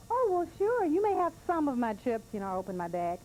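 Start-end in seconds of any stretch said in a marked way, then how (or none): 0.1-2.2 reluctant. Retold or imitated. Teller voices her own reluctant reply.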